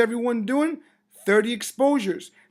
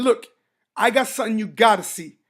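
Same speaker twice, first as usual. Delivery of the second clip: louder, eager hook; excited; 5 dB louder than usual. Shown as a demonstration. Going up to someone with the opportunity, excited. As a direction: grab them with real energy. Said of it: "and I'm excited".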